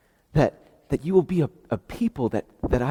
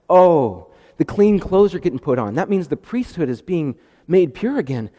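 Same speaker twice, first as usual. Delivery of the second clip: excited Zechariah; 3 semitones higher, 4 dB louder than usual. Acted. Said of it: "he's like".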